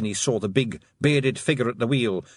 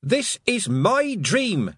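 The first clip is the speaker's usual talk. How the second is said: shouted; 10 semitones higher, much slower than usual. Acted. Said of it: "she shouted at the sky".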